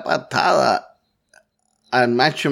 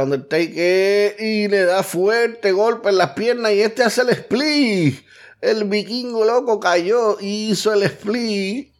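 wrestling commentator; 6 semitones higher than usual. Real, not acted. Wrestling play-by-play builds.

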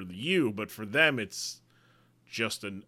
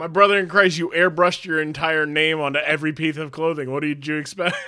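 mock exasperation; 3 semitones higher, 5 dB louder than usual. Mock rebuke of the wrestler.

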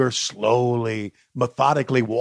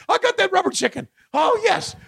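excited fan voice. Retold or imitated. Voicing fan with chicken.

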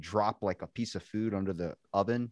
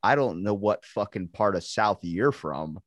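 ordinary talk, nothing marked

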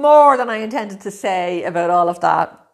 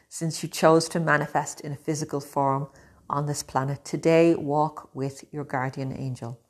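guided meditation. Acted. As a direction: guide them gently, unhurried.

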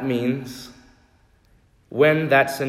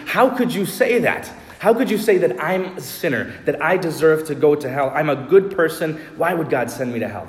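imitating an offended protest, pitched high; mock outrage at being called a sinner; hammed-up indignation, higher and louder; indignant anger; 4 semitones higher, 3 dB louder, faster than usual. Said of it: "their immediate reaction is anger or fury".

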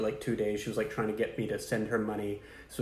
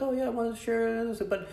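higher, sweet coaxing pitch; mock scam girl; 4 semitones higher than usual. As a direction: lure him in sweetly. Voicing the scam bot.

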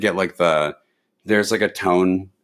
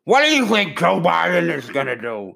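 Obama impression; 8 semitones higher than usual. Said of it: "where he's talking like this".

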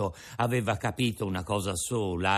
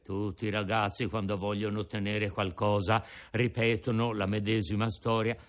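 put-on an old father offering his breakfast; old Geppetto; 3 semitones lower than usual. Geppetto handing Pinocchio his pears, lower old man voice.

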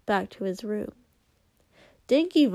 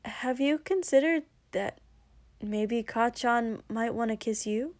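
nervous. Acted. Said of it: "took a very deep breath".

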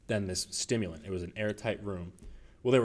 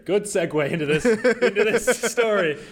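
giggly prank whisper; 11 semitones higher, 11 dB louder than usual. Real, not acted. Giggly lead-in to story.

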